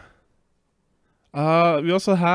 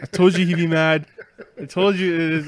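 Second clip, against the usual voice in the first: laughing; 3 semitones higher, 5 dB louder, faster than usual. Retold or imitated. Ben quoted laughing, pitched up.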